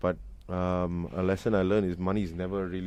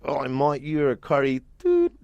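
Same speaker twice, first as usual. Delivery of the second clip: higher, louder jeering Australian heckler; mocking racist punters; 7 semitones higher, 5 dB louder than usual. Racist pub crowd jeering at the Black singer. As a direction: sneer it out like a racist local. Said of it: "Because they were like".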